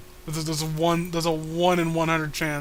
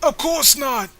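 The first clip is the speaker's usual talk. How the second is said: put-on squeaky girl voice; 4 semitones lower than usual. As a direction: keep up the chirpy girl act. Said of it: "what happened to your voice?".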